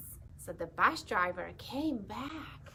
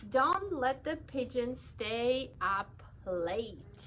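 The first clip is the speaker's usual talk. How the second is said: put-on slow, announcing the book title to children; reading the title; slower than usual. Shown as a demonstration. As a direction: read the title out slowly and clearly. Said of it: "Always have to read the author's name".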